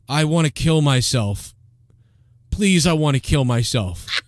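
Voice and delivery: slow, mock-despondent host; Opie. Back to Opie on his own, slow mock despair. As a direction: drag out a listless mock plea. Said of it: "What's Opie doing?".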